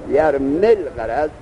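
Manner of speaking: یرمل غرض read slowly, the final ya of یرمی dropped and joined to لغرض; slow demo reading. Shown as a demonstration. Teacher modelling the reading for students: slow, ya dropped. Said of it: "اولی حرف مده حذف کن".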